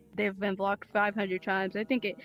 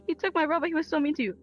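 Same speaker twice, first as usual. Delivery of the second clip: higher whiny imitation; mocking quote; 5 semitones higher, faster than usual. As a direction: mimic her complaining, pitched up. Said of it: "She was like".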